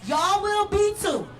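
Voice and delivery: high, fast, loud cry; impassioned shout. Real, not acted. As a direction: let it burst out. Peak of the poem.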